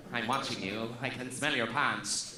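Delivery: low, slow creepy murmur; mock sinister low voice. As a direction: lean in like a creep. Creepy whisper to audience.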